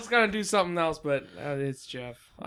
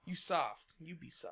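broken English guy; 4 dB quieter than usual. Retold or imitated. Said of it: "when you don't know how to speak good English".

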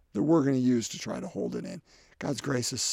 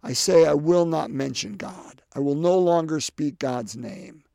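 louder, heated quote of Jeremiah; Jeremiah's anger; 6 dB louder than usual. Retold or imitated. Priest voicing Jeremiah's anger at God, louder and heated. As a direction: push it out like a frustrated prophet. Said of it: "in the midst of his anger".

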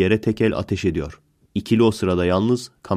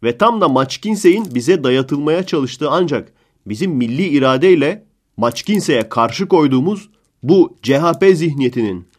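mock partisan pundit; 4 semitones higher than usual. Pundit defending Arda to the reporter, worked-up rant. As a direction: lecture the reporter like a fired-up defender.

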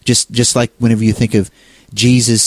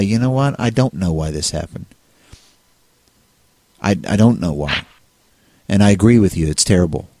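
gentle comforting words; 3 semitones lower than usual. Pretend. Comforting a grieving attack victim.

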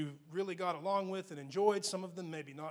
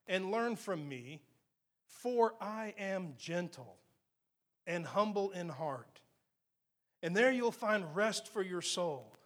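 scripture reading. Acted. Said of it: "He says".

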